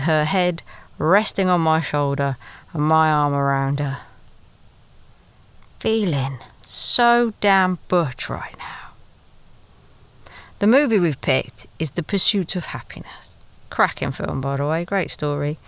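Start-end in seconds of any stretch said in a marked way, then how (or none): 5.8-13.3 breathy secret-sharing whisper to the listener; hushed whisper. Pretend. Telling the listener about the cinema date, in a whisper. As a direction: whisper it, as if still sitting in the dark cinema.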